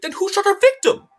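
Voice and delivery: stunned courtroom challenge; dramatic question. Acted.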